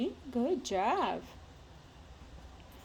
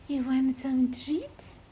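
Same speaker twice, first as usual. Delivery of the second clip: slow, drawn-out excited lilt; excited treat offer; 6 semitones higher, slower than usual. Real, not acted. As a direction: tease them with treats, stretched out.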